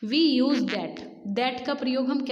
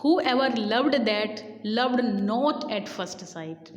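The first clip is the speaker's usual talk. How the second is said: slow quotation reading; much slower than usual. Shown as a demonstration. Teacher reading a quoted verse line to students, very slowly. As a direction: read out very slowly, each word weighed. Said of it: "फीबे एक line को refer करते हैं".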